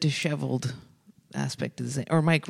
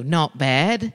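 lightly imitated Australian; a hint of mock Australian; Australian accent. Retelling an Australian audience member's replies, light mock Australian accent. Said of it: "who's Australian".

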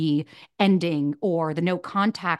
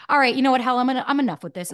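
imitating dad's fed-up outburst, louder; a retold dad snapping, higher and louder; exasperated dad; 6 semitones higher, 4 dB louder, much faster than usual. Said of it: "my dad just looks and goes".

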